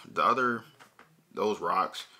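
ordinary talk

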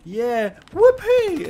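slow, drawn-out high sarcastic whoopee; mock cheer. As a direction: stretch "whoopee" up high like fake joy. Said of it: "one day you're".

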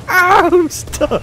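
high, squealed words through laughter; laughing wail. Real, not acted. Player stuck after the stunt, high laughing wail. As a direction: squeal it out while cracking up.

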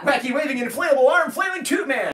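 loud, high and laughing; laughing shout. Acted. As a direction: shout it while cracking up. Laughing through catchphrase shout.

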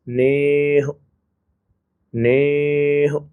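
ਨੇਹ with a light, short aunkar on the ਹ; slow ਨੇਹ, keeping the ending short so it doesn't turn into a hora; ਨੇਹ drawn out slowly for the learners; careful pronunciation. Shown as a demonstration. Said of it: "ਹਲਕੀ ਜਿਹੀ ਇਹਦੀ ਛੋਟੀ ਆਵਾਜ਼".

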